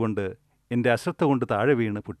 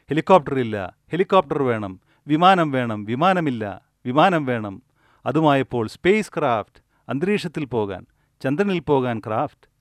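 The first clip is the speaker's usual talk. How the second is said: louder, insistent craving demands; whine-demand like a spoiled child, louder; mock greedy demands; 2 semitones higher, 4 dB louder than usual. Voicing endless greedy demands. (ആർത്തിയോടെ ഉറക്കെ ആവശ്യപ്പെടുന്നു)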